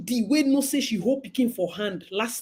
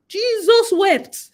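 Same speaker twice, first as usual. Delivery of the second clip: slow, louder, higher laugh-cry; laughing exclamation; 9 semitones higher, 6 dB louder, much slower than usual. Real, not acted. Commenter reacting to the scene, laughing loudly.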